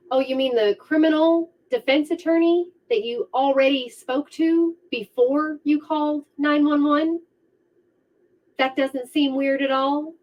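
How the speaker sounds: sarcastic. Acted. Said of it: "sarcastic commentary".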